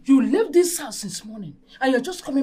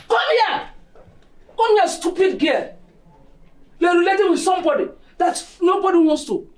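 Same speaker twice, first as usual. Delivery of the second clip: angry summons; 2 semitones higher than usual. Acted. Mother ordering her daughter over, angry call.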